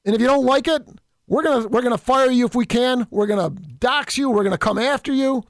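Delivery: lightly voiced sneering opponent laying down the law; mild mock of a bossy opponent; mocking the left. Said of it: "because that's what the left does".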